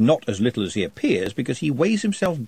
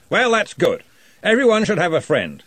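higher, louder, jovial head wizard; hearty wizard boss; 8 semitones higher, 4 dB louder than usual. Acted. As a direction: brush it off with booming cheer. Ridcully answers Trev.

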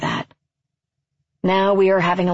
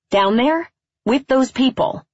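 mock dismay; 8 semitones higher than usual. A narrator's reading. Sister goads brother with questions.

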